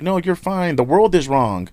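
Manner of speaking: high, sing-song fake reassurance; mock flattering voice. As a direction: coo it like a yes-man patting his head. Mocking people who flatter him.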